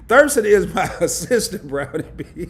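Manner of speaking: laughing loudly mid-line. Real, not acted. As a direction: break into laughs partway through. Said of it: "you got me over here laughing".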